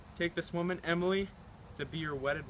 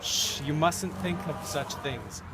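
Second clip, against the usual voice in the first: reassuring; slower than usual. Acted. Father comforting daughter.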